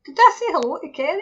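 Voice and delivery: ordinary delivery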